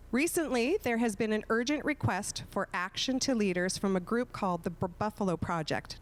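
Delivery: measured read-aloud, phrase by phrase; slow, careful reading. Real, not acted. Moderator reads candidates a long question, slowly and carefully. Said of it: "read it very slowly".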